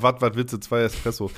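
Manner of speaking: put-on blunt Ruhrpott accent waitress; a lightly voiced Ruhrpott accent. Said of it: "auf einmal war sie aus dem Pott".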